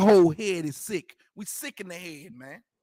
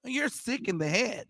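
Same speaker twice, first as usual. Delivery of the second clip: put-on softer, careful white American accent; mock proper white American diction; white person's speech; 5 dB quieter than usual. Preacher imitating a white person saying it, white American accent. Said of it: "heard a white person say".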